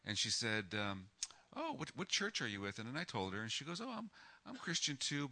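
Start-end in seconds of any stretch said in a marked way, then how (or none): 1.5-2.8 high-pitched imitation of a curious lady; imitated lady. Lady asking a stranger about church, high imitated voice. 3.8-5.3 high, light imitation of a lady; imitated lady. Lady telling him her faith, high imitated voice.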